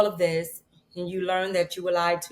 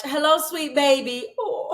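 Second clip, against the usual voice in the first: tender reading; 7 semitones higher, slower than usual. Real, not acted. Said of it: "There is so much".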